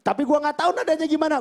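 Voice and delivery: normal talking voice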